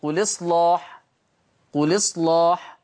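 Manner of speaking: قل إصلاح read as qulislaḥ, the hamza dropped and its vowel carried onto the lam; recited with naql. Shown as a demonstration. Teacher demonstrates naql to beginners, slow careful recitation. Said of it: "تقرأ بالنقل".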